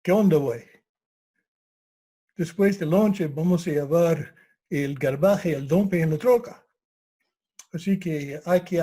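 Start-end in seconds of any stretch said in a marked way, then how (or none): 0.0-6.6 a bit louder Arizona Mexican Spanglish. Retold or imitated. Local buddy about hauling the trash, Arizona Spanglish. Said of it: "Aquí dicen".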